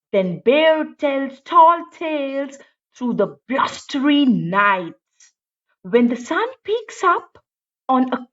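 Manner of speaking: rhythmic read-aloud; slow read-aloud, stretched ending; storybook reading. A narrator's reading. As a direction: read it like a picture book. Story narration.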